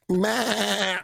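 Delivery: short bleating goat noise; mock goat bleat. Man insisting he is no goat, mock bleat.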